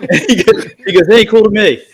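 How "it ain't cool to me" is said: higher, louder mock retort; retold attitude. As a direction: imitate a teammate who is not impressed. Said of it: "just total attitude".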